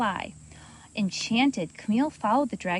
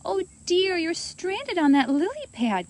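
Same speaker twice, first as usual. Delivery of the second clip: character voice; 8 semitones higher, 3 dB louder than usual. A narrator's reading. Camille voiced, concerned.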